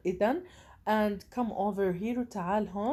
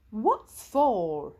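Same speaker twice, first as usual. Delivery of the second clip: louder, lightly alarmed question; mildly alarmed; 6 dB louder than usual. A narrator's reading. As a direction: read a touch of alarm into it. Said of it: "began to sound alarmed". (بنبرة انزعاج خفيفة)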